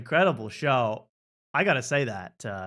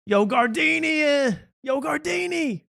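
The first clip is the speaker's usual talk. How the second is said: high, slow yelled Rocky call; slow hammed-up Rocky shout; Rocky impression; 12 semitones higher, slower than usual. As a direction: yell it like Rocky at the end of the fight. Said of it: "he looks like Rocky".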